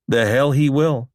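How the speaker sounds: high, loud angry comeback; sharp retort. A narrator's reading. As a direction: snap back in defiance. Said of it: "Wilson retorted".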